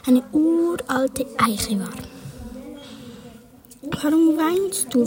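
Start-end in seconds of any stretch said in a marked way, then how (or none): 3.8-5.0 firm voice. Acted. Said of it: "mit fester Stimme".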